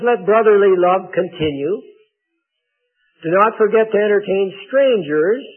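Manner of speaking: measured, declarative Bible reading; scripture reading. Acted. Preacher reading Hebrews to the congregation, formal scripture reading. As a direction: read the verses out firmly to a congregation. Reads a Bible passage aloud.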